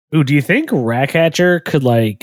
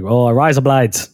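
Australian accent; slower than usual. Shown as a demonstration.

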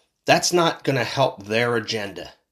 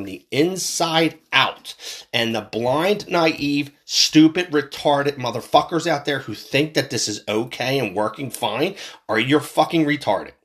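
fired up; 2 semitones higher than usual. Real, not acted. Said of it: "I'm getting a little fired up".

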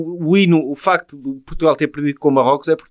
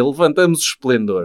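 ad slogan voice; 2 semitones lower than usual. Acted. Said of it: "fazer um daqueles anúncios".

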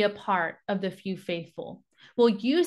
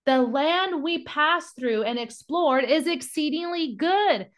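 higher-pitched, emphatic scripture quote; passionate proclamation; 5 semitones higher than usual. Acted. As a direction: declare it to the assembly with mild passion. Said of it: "They're literally in full passion".

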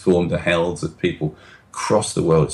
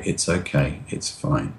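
soothing; 3 semitones lower, 5 dB quieter than usual. Retold or imitated. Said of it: "convey to this animal".

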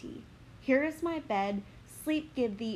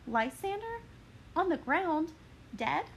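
put-on higher, breathless young woman; Helena lamenting; 3 semitones higher than usual. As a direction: mourn then startle at the body.

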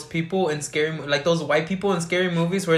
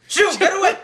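high, loud shooing yell; mock yell at kitten; 14 semitones higher, 6 dB louder than usual. Podcast host acts out friend shooing kitten: hammed-up shout. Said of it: "and you're like".

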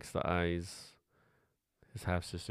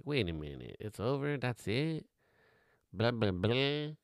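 mock audience surprise; 5 semitones higher, slower than usual. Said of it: "we like".

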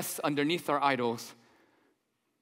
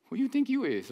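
much higher-pitched mock indignation; indignant bystander; 8 semitones higher than usual. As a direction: play the offended onlooker, pitched way up. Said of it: "People be like".

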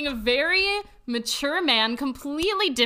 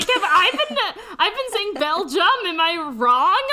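high, hammed-up panic; fretting, voice up high; mock panic; 5 semitones higher, 4 dB louder than usual. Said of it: "where I was like".

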